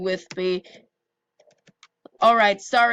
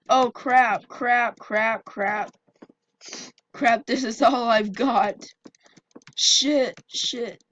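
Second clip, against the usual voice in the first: scared, gasping curses under pressure; breathless fright; 3 semitones higher, slower than usual. Real, not acted. Fleeing attacker, nearly dying.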